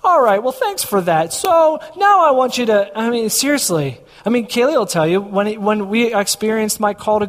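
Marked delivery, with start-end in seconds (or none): 0.0-3.0 lightly acted brush-off, lifting higher at the end; mock bargaining prayer. Asking God for another sign, mock bargaining. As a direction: thank God quickly, then push higher for more. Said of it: "and I'm like".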